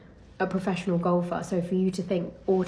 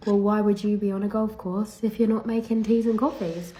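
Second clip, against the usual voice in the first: imitating a baffled male golfer, slightly raised pitch; mock incredulous; 3 semitones higher than usual. Golfer doubting the pro's presence, mock incredulous. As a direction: put on mild disbelief. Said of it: "As if to say".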